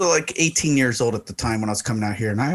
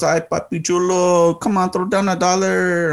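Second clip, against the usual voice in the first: high, drawn-out pleading stripper voice; 6 semitones higher than usual. Retold or imitated. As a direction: imitate a coaxing Latina stripper. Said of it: "And she goes".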